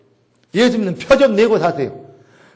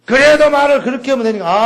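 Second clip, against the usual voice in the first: mock protest; 5 semitones higher, 4 dB louder than usual. 화난 상대의 항의 재연.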